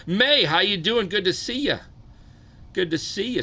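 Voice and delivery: high, bright hello to a viewer; light up for a regular; cheery greeting. Real, not acted.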